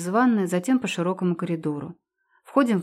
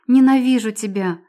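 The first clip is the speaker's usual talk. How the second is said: forced out; 2 semitones higher, 6 dB louder than usual. Acted. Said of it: "только и выдавливаю я по буквам".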